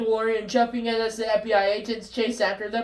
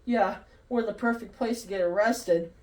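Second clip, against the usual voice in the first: muttering; 6 dB quieter than usual. Acted.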